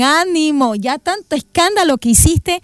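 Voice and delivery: fond, lightly chiding encouragement; affectionate encouragement. Acted. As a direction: gently cheer the beggar on. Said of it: "con qué cariño".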